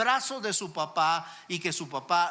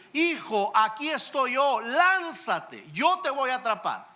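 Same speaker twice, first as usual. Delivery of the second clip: father calling up; 4 semitones higher, 3 dB louder than usual. Acted. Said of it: "desde afuera le grita".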